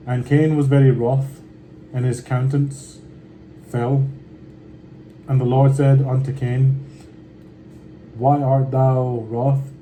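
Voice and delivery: measured, unhurried Bible reading; scripture reading. Acted. Reading Genesis aloud to his viewers, steady scripture reading. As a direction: read the old words steadily and with care.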